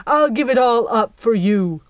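hammed-up vow on one knee; melodramatic vow. Jack kneels before Belle, melodramatic vow. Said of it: "sheer melodrama of his performance".

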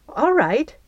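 mildly startled assent; taken aback. A narrator's reading. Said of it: "taken aback".

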